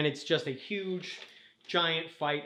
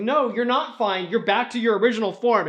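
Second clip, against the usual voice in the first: firm contradiction; 4 semitones higher, 5 dB louder than usual. Acted. Takanuva contradicts Tahu.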